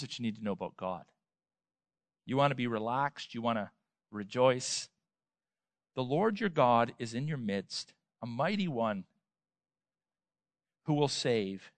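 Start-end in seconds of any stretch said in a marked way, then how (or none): none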